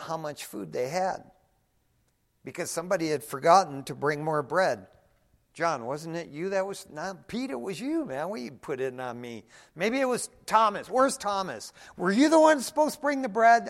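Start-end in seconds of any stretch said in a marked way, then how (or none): 5.5-13.7 squabbling, accusing each other, louder; bickering disciples. Retold or imitated. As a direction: blame each other in the boat.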